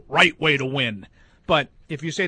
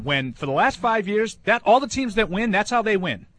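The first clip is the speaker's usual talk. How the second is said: raised, fired-up voice; heated ranting; 3 semitones higher than usual. Real, not acted. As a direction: rant like you're arguing. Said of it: "Who's he yelling at?".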